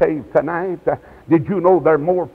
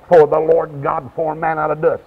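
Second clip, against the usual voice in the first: verse given more deliberately; slowed-down recitation. Retold or imitated. Preacher repeating Genesis for the boy, slowed-down recitation. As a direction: repeat the scripture slowly for the listener. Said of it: "Slow her down".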